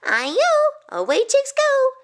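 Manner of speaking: very high, loud gleeful call; cheeky runaway cake's taunt; taunting rice cake cry. A narrator's reading. Rice cake taunting chicks as it escapes, high loud cry. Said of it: "It cried".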